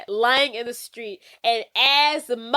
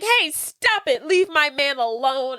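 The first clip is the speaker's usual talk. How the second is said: Antoinette yelling stop; 3 semitones higher than usual. Retold or imitated. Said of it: "She's like".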